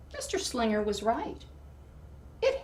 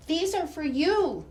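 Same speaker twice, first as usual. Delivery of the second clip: eager offering; 8 semitones higher, 6 dB louder than usual. Acted. Lily offering snacks to teacher.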